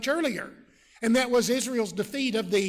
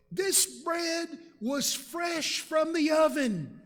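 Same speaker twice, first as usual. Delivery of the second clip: pleading travellers; 5 semitones higher, slower than usual. Acted. Gibeonites lie to Joshua.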